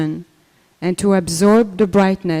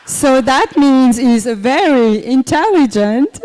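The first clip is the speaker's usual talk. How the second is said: slow, higher and louder, teasing; slow, playful with a rising end; playful slow speech; 5 semitones higher, 5 dB louder, slower than usual. Shown as a demonstration. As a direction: drag it out slowly to tease Maharaj. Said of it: "speaks very slowly".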